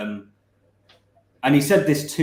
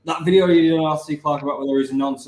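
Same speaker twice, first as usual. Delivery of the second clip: quick quote; 3 semitones higher, 3 dB louder, faster than usual. Retold or imitated. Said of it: "I did, I did".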